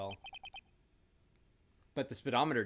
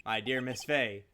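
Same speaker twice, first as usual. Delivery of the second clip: murderer's farewell; 4 dB louder than usual. Acted. Voices the murderer in the game.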